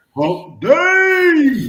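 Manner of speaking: very high, loud, swooping whooping holler, "Day" drawn out. Retelling calling out the day at Walmart: retelling a holler. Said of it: "I hollered out".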